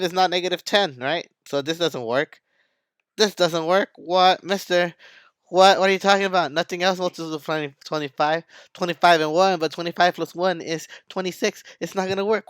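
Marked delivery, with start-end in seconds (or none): 3.2-12.5 panicky students. Pretend. Students panic in teacher's skit.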